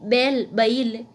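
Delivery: बैल, slow, vowel opened into a glide; diphthong demo. Shown as a demonstration. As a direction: draw बैल out slowly, the second as ba-il. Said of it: "संयुक्त स्वर संध्याक्षरों के रूप में". (बैल धीरे, संयुक्त स्वर खोलकर)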